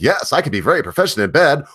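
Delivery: high-pitched mock robot voice; imitated robot. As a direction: play the movie robot, pitched well up. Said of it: "falls in love with a robot".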